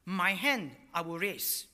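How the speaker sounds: "My hand" loud and drawn out, then "I will raise"; slow, forceful stress on "My hand"; emphatic. Shown as a demonstration. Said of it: "so it's emphatic".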